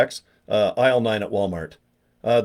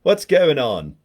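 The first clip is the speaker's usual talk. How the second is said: lightly mocked English accent, a bit louder; 3 semitones higher, 4 dB louder, slower than usual. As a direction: put on a rough English accent. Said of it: "He just talks like this".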